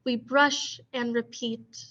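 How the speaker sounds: slow, measured poetry recitation; poem reading. Acted. Teacher reading a poem to her class, measured recitation. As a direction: let each image settle with pauses.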